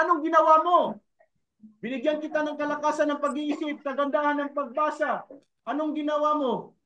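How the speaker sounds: a hint of a stern judge asking; lightly voiced judge demanding answers; stern divine questioning. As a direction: question him as a judge would. Voicing God's question.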